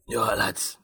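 put-on gravelly Sean Dyche accent greeting the lads; a rough-throated Sean Dyche accent, like a manager in the dressing room. Host greets the lads in a gravelly Sean Dyche accent. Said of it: "That sort of Sean Dyche accent?".

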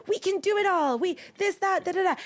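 high-pitched parody of can-do zeal; hammed-up do-it-all cheer; mock gung-ho. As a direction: rattle it off as an over-eager slogan. Mocking the do-it-all working women attitude.

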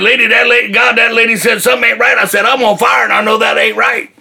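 high-pitched retold protest; alarmed protest. Retells alarmed protest while on fire.

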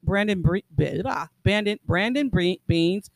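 stumbling over the name, restarting; tongue-tied. Real, not acted. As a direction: trip over BRANDON BEANS and retry. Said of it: "I'm having a problem with it".

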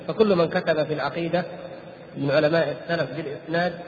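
usual speaking voice

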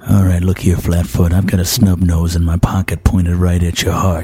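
1930s gangster. Acted. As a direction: threaten like an old movie mobster. Gangster threatens the fireman.

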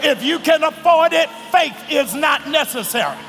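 shouted gospel preaching. Acted. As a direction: preach it at full force. Preaching at full force.

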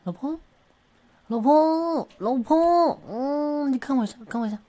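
high, loud, whining pleas for attention; a high, pleading coo that keeps calling for attention; whiny clingy partner. Acted. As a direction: wheedle like a needy spouse tugging a sleeve.

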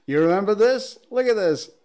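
put-on high, thin reedy old man; creaky old-timer addressing young folks. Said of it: "That's my old man voice".

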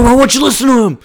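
high loud ghost voice; ghostly father voice. Acted. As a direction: call out like a ghost. Ghost father urging Clark.

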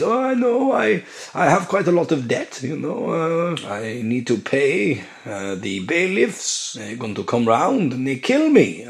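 high, slow confiding character voice; put-on ASMR masseur. Masseur confiding debts to client, put-on high voice. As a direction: drift through the money woes in a high, halting voice. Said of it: "I'm doing the same voice".

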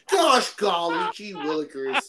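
mock innocent. Mock innocence after slur clip.

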